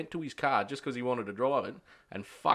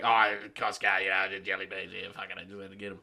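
dopey movie-character mumble; 5 semitones lower than usual. Retold or imitated. Workmate excusing his jelly bean trip, dopey mumble. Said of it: "You sound like that dude that Adam Sandler has in movies".

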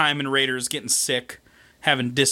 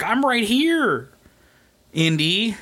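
sultry mock seduction; 6 semitones higher, slower than usual. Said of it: "she's like".

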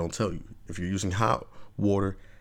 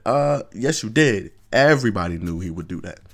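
louder, sarcastic yes you did; scornful retort; 6 dB louder than usual. Real, not acted. Vlogger scolds hypocrite women, loud scorn. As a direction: snap back loud and mocking.

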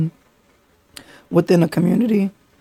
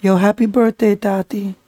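smooth crooner birthday shout-out voice; impression of a singer. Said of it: "this is Romeo Santos".

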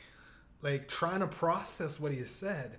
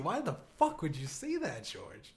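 ordinary delivery

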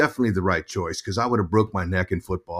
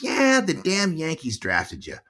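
higher, slowed imitation of mom; grumbling mom; 6 semitones higher, slower than usual. Mom reporting the draft to son, mock indignation. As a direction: lightly voice an indignant mother. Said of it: "She goes".

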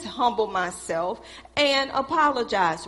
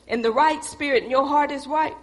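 preaching shout; 2 semitones higher than usual. Real, not acted. Preaching emphasis.

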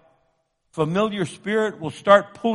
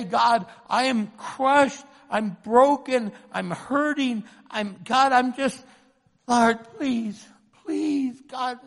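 higher, slow and halting plea; anguished prayer; 4 semitones higher, slower than usual. Acted. Preacher models praying our brokenness to God, anguished pleading. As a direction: plead brokenly, pausing between phrases. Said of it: "that cry of anguish".

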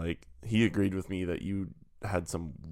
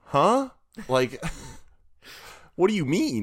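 baffled; 8 semitones higher than usual. Retold or imitated. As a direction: play confused disbelief. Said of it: "we all just turned and were like".

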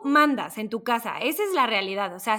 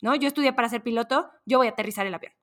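calm pilot. Retold or imitated. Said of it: "el piloto dice".

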